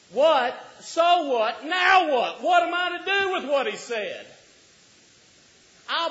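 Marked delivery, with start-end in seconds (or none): 0.1-4.3 what, so what, now what, rising to a full shout; preaching shout. Real, not acted. Preacher shouting the questions at the congregation. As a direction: build each question louder until you are shouting.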